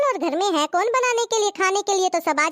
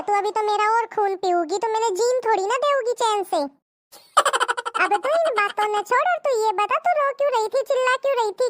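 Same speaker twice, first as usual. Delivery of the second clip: husband. Acted. Husband answers wife's wailing, lightly voiced and teasing.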